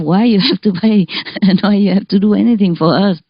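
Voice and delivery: quick, laughing retelling; hurried words bubbling with laughter; laughing through the words. Retold or imitated. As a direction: let the giggles break into the quote. Retelling the doctor's kind refusal.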